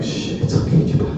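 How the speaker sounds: whispered soothing shush. Retold or imitated. Speaker calming crying Annie, whispered shushing. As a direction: hush her gently, whispered. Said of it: "I was like".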